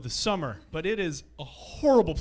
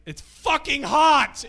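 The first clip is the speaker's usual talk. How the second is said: mock lion complaining; 10 semitones higher, 10 dB louder, much slower than usual. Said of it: "Even the lions were like".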